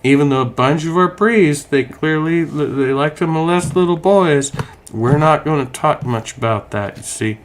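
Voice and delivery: a hint of a Southern preacher brushing off scandal; mock Southern evangelical accent, understated; evangelical Southerner voice. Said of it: "I know I'm doing my evangelical Southerner voice".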